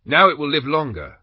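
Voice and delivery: put-on rough country accent for the soldier. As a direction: play the simple old man in a rough accent. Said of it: "he said in a rough accent".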